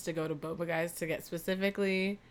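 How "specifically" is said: shaky, about to break down; wavering voice. Real, not acted. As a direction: voice wavering, near tears. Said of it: "Your voice is, like, wavering".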